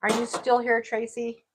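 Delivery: calling out to another room. Real, not acted. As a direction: call out to Tracy. Calling out to Tracy.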